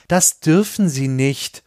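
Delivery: slow, high, trembling plea; shaky breathless pleading. Acted. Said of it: "mit zitternder Stimme".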